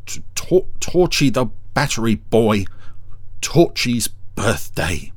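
queasy dismay. Acted. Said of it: "looked like he was about to be sick".

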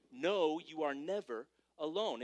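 each word laid down slowly for the notes; slow, weighty repeat. Shown as a demonstration. Slow emphatic repeat. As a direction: pastor repeats the point slowly. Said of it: "That's point number three".

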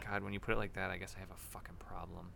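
soft, voiceless confession; ashamed whisper. Real, not acted. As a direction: admit it under your breath.

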